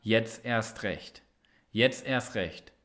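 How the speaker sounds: slow, soft and low, said to oneself; a private quiet affirmation; quiet self-talk. Shown as a demonstration. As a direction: tell yourself the motto in a calm inner voice. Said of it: "dann sag dir doch mal".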